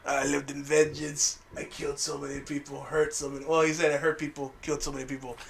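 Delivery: hushed villain remorse; lightly voiced brooding Magneto; mock Magneto. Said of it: "And he's like".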